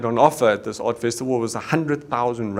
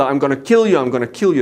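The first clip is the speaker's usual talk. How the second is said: mock yell; 3 semitones higher, 5 dB louder, faster than usual. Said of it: "this guy screaming at their father".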